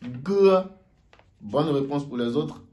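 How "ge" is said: "Mo" called high and loud; quiz answer letter. Shown as a demonstration. Teacher revealing the quiz answer, high. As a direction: announce "Mo" as the answer. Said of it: "Et l'autre, c'est".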